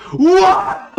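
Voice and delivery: high, startled "What?"; shocked what. Real, not acted. Projector suddenly turns on.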